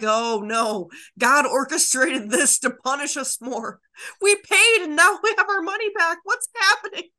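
hammed-up alarm about the returned money; mock panic. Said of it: "They're just like".

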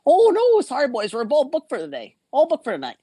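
smirking hotel clerk turning them away; smug desk clerk. Retold or imitated. Mocking the grinning clerk who has no room for them, in a high smug voice. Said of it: "a shit-eating grin on his fucking face".

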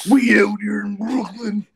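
high, bright-pitched Brooklyn bro; brooklyn accent. Acted. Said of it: "the Brooklyn robot".

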